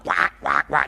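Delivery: imitated duck quacks; duck quacking. Speaker mocking customer service staff, duck quacking. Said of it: "they have this duck-like mentality".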